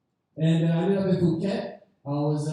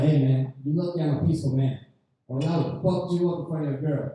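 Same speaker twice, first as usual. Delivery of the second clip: mock tough threat; 3 semitones lower than usual. Comic threatening the drunk with a hand on his shoulder, low and firm. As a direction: lean in and warn him.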